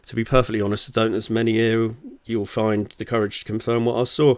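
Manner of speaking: lively, punchy audiobook read; story narration. Acted. Author reads their novel to listeners, story narration.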